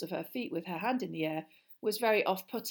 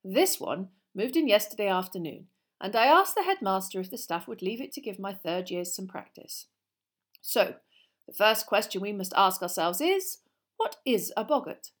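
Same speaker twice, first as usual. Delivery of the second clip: lively, louder classroom lecture; lightly voiced teacher; 8 dB louder than usual. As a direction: project like an encouraging teacher.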